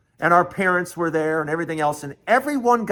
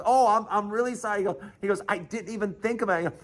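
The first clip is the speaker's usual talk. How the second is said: softer, quick backpedaling; retold chastened coach, hurried and hushed; sheepish apology; 3 semitones higher, 6 dB quieter, faster than usual.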